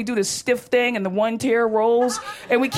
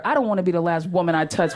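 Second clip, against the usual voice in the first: a touch of disgust, lower voice; mildly indignant rebuff; 4 semitones lower than usual. Real, not acted. Comic rejecting her boyfriend's sweet line, mildly indignant. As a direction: throw the sweet line back, unimpressed.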